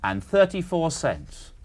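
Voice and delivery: slow, careful repeat; slow dictation. Real, not acted. Questioner confirming the cents for the contestant, slowly. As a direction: repeat the amount so it can be noted. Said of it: "I'll say it slowly".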